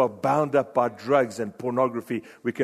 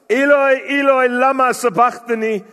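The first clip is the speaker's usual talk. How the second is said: a much higher, louder anguished cry of "Eloi"; 9 semitones higher, 8 dB louder than usual. Acted. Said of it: "cried out in a loud voice".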